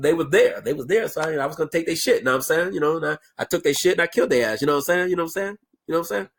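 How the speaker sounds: mock a rambling, slurred street talker; filler-stuffed rant, words run together; ignorant thug rant. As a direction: imitate a thug rambling in loose slang. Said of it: "his rant was something like this".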